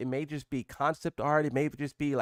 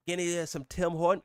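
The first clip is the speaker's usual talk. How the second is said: mock Canadian blended with Australian; muddled Canadian accent; 3 semitones higher than usual. Streamer teasing a UK viewer in a muddled Canadian accent. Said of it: "like, Australian and Canadian".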